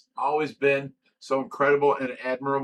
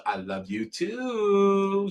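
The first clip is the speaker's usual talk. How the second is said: put-on high, very slow, drawn-out little girl voice; granddaughter's sweet voice; 6 semitones higher, much slower than usual. Grandpa imitating his granddaughter, high and drawn out. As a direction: stretch it out sweetly like a four-year-old.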